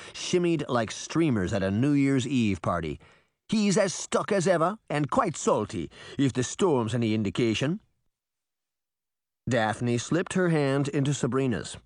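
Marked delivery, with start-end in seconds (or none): 3.5-7.8 put-on Caribbean accent. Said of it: "thick Caribbean accent".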